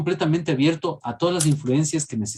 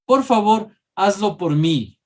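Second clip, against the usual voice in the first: pleading request; 6 semitones higher, 3 dB louder, slower than usual. Shown as a demonstration. Teacher acts pleading request.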